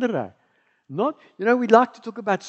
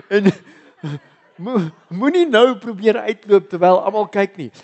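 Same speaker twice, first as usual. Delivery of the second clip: laughing tease; 7 dB louder than usual. Real, not acted. Teasing first-time visitors.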